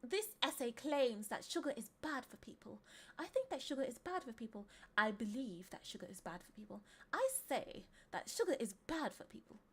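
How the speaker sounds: mock-formal British accent. Shown as a demonstration. Streamer reading the most formal option, British accent. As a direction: read it primly in a put-on British accent. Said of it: "say it in a British accent".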